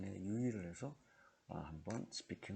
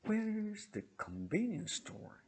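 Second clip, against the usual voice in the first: slow, Where's high and loud, ending not raised; wh-question tune; 13 semitones higher, 5 dB louder, much slower than usual. Shown as a demonstration. Teacher shows students the wh-question tune, slow and loud. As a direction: stress Where's and don't lift the end. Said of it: "의문사로 시작하는 의문문은 뒷부분을 내립니다".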